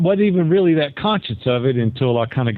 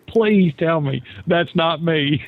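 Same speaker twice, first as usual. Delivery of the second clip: retold pleading; 3 semitones higher, slower than usual. Begs wife after hearing own recording.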